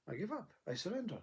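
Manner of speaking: ordinary talk, nothing marked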